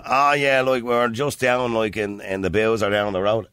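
put-on drawn-out strong Irish accent; strong local accent. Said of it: "If you had a strong accent".

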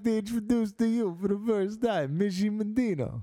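high showman introduction; announcer voice. Acted. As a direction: introduce her like a ring announcer. Mock announcing a performer.

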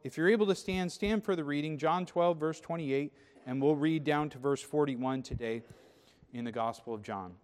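ordinary talk

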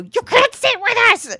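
put-on high, loud snotty mean-girl voice; mean girl line. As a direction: sneer it like the queen bee shutting someone out. Quoting the famous mean-girl line.

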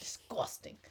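whispered disgust. Real, not acted. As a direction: whisper it, grossed out. Echoes whispered reaction.

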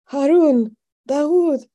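high, loud summons, each name separate; calling out names. A narrator's reading. Shaking father calling for his sons, urgent cry. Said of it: "calling for her other brothers".

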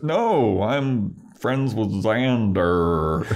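drawn-out, lightly hammed-up denial; mock Spike protest. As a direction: stretch it out like a badly faked cover story. Acting out Spike's feeble cover story.

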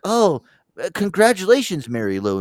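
high, loud gushing opener, dropping on the name; mock congratulations. Coworkers congratulating his mom at work, mock gushing.

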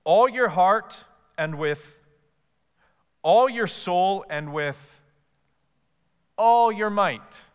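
"All" punched high and loud each time, slow; stress on ALL. Acted. Preacher to the church, hammering each "all" slowly. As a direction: hit every "all", slowly. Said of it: "Notice he repeats the word all three times".

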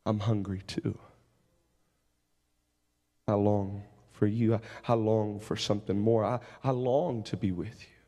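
low, tender voice of God, full of longing. Acted. Preacher voicing God to the congregation, low and tender. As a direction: speak as God, low and yearning for his people. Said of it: "He says".

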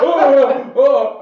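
startled yelp. Retold or imitated. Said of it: "He's like".

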